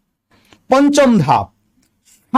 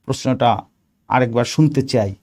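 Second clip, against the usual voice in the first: lower, slightly softened, courteous request; polite request; 5 semitones lower than usual. Shown as a demonstration. Candidate asks the examiner to repeat the question, politely. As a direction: ask deferentially, keeping the voice low. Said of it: "Just ভদ্রভাবে বলবেন".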